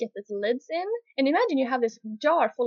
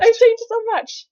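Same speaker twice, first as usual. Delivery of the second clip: emphatic; 10 semitones higher, 11 dB louder, slower than usual. Real, not acted. Emphatic agreement, higher, louder, slower.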